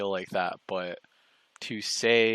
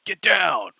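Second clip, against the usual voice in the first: sudden loud mock yell, higher; mock shout; 10 semitones higher, 9 dB louder than usual. Retelling the movie, Leon yells at the crowd, mock shout. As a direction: bark the order like an action hero.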